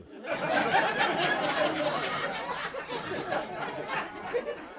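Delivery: high long cackling laugh; high cackle. Real, not acted. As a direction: cackle at the joke. Big laugh.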